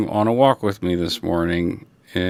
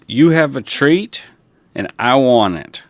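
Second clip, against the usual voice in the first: dog voice; 5 semitones higher, 7 dB louder than usual. Pretend.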